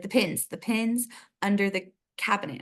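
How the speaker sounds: lightly imitated British "pins" for pans; imitated British accent. Landlord telling tenant about the pans, light British accent. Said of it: "said it in a very distinct".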